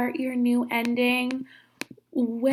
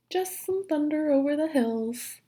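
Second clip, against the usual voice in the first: sneaky wolf; 5 semitones higher than usual. Acted. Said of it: "said the sneaky, hungry wolf".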